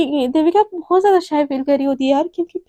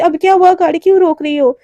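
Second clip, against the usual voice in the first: louder, sharp question; irritated demand; 2 semitones higher, 7 dB louder than usual. Acted. Devika to Radhika as the car stops, irritated. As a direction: snap why she stopped.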